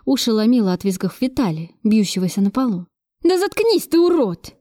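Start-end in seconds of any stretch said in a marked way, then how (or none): 3.2-4.5 sharply higher, exasperated command; angry snap. A narrator's reading. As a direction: snap at him to silence him. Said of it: "рявкнула я на него". (раздражённый окрик)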